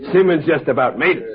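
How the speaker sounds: amused, laughing through the words. Acted. Barman telling the detective about the drunk tramp, laughing. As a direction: let the laugh carry the line.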